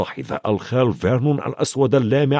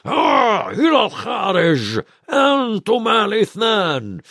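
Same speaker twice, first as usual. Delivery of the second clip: shouting; 8 semitones higher, slower than usual. A narrator's reading. Uncle shouts the boys out of the kitchen. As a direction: bark the boys out of the room. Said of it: "صاح الخال فيرنون".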